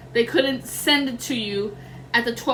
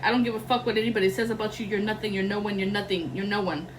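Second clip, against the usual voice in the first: scornful curse; 3 semitones lower, 4 dB quieter, faster than usual. Retold or imitated. Voicing the witch's spell.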